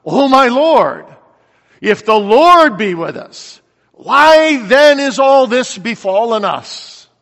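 slow, loud cry of complaint; loud protest. Acted. Gideon answering the angel who visits him, loud protest. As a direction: challenge the Lord, high and drawn out.

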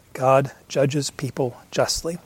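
said slowly, each word weighed: God judges people justly; slow it right down and lay out every word; measured, unhurried emphasis; slow, deliberate restatement. Shown as a demonstration. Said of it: "No, let's back up".

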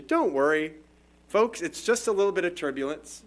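a light hint of an airline pilot reassuring passengers; lightly voiced calm captain on the intercom; friendly pilot voice. Pilot reassuring passengers through turbulence, lightly voiced friendly calm. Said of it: "pilot's friendly voice comes on the intercom".

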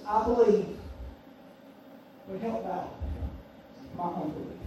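hushed, low, halting quote; tearful plea, imitated. Father pleading with Jesus for his child, subdued imitation of tearful sorrow. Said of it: "and with tears".

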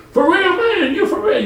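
mock disbelief. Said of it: "the guy's disbelief".

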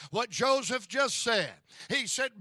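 normal talking voice

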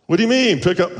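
high, loud startled "what do you mean"; sudden confused yelp; startled reply. Retold or imitated. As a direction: jump up in pitch, caught off guard. Pastor's startled retort.

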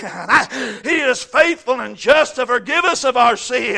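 loud, rising pulpit preaching with shouted peaks; fiery preaching. Acted. Preacher exhorting the congregation on sin and grace, fiery preaching. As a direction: preach it to the back pew. Preaching scripture at full force.

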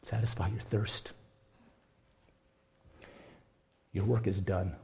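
soft, quiet fatherly invitation; gentle comfort. Acted. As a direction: ease him gently, his work is over.

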